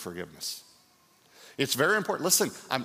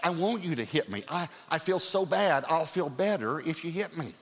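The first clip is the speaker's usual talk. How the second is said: higher, earnest pleading; pleading husband; 5 semitones higher than usual. Retold or imitated. Husband begs wife to hit him, high pleading voice. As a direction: insist like a guilty husband. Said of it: "I said".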